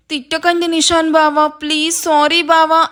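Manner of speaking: mildly whimpered, put-on plea; fake tearful pleading. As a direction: beg as if crying, for an audience. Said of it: "అని ఏడుస్తూ చెప్తుంది".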